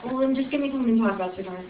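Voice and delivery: lightly put-on Irish accent. Shown as a demonstration. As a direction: ask it with an Irish lilt. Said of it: "I'll do Irish".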